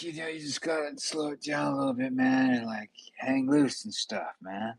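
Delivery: put-on California accent. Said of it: "somebody from, like, California and stuff".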